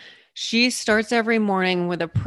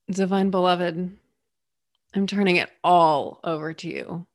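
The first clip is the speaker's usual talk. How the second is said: morning prayer. Acted. Speaker to the Divine Beloved, turning it all over, prayerful. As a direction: offer each short phrase up sincerely.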